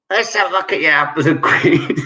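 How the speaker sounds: quick, lightly put-on Cockney; a cheeky market-trader tease; Cockney accent. Shown as a demonstration. Quizmaster using slang in a sentence, light Cockney. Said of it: "I will try and do a Cockney accent".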